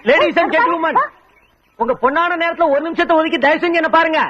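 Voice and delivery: high, carrying announcer's appeal; showy call for everyone's attention; public announcement. Acted. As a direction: address a crowd from afar. Addresses public to get attention.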